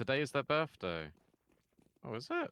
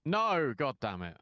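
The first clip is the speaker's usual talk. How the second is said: frustrated groan; 3 semitones higher, 6 dB louder, slower than usual. Real, not acted. Losing elo while chatting.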